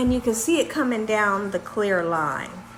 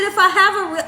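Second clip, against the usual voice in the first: upset; 7 semitones higher, 4 dB louder, faster than usual. Retold or imitated. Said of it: "I was so mad".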